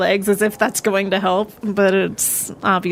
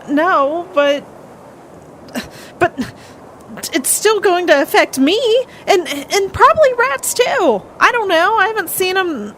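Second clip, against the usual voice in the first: higher-pitched, upset in-character worry; distressed; 8 semitones higher than usual. Acted. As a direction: fret aloud, pitch climbing as the worry builds. Upset infested character answers a question.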